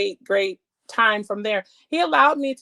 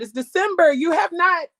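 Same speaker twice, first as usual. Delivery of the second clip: raised, pleading complaint; a hint of indignant prayer; challenging God; 5 semitones higher than usual. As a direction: demand an answer from God. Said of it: "I challenged God and said".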